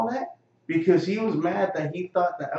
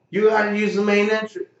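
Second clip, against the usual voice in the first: loud, sharp guard warning; retold guard's yell; 4 semitones higher, 6 dB louder than usual. Security guard loudly telling him to use the main entrance. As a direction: bark the rule at him like a guard.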